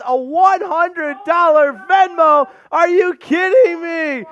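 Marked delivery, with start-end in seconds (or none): 2.7-4.2 surprised disbelief. Real, not acted. Hundred-dollar donation from player.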